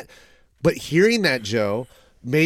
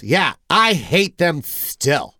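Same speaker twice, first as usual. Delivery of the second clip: Jon Lovitz impression; much slower than usual. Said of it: "it's a horrible impersonation".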